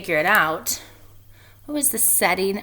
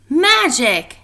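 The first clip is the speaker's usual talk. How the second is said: higher, louder joyful shout; 7 semitones higher, 6 dB louder than usual. Acted. Pecan shouting with joy at the magic nuts. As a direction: cheer the word out. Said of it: "shouted Pecan".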